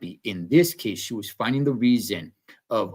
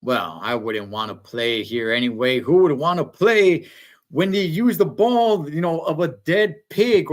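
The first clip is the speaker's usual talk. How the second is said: pouty, rising to higher and louder; sulk, then climb up indignant; huffy Lisa; 3 semitones higher, 3 dB louder than usual. Retold or imitated. Lisa snubbed by the coach, rising into indignant pitch. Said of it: "She's all like".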